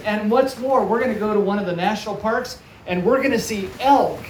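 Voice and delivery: lightly acted excited parent; excited mom. Mom adding to the surprise.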